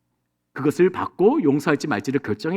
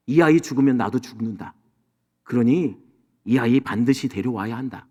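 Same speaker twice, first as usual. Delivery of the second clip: put-on grieving old father; 4 semitones lower than usual. Father Jacob voiced in sermon.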